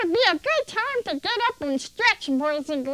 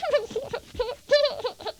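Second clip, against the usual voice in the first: chuckle. Real, not acted. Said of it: "might hurt myself from laughing".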